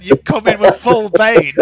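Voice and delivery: booming masked villain voice; loud, theatrical Bane. Acted. Player doing a Bane voice.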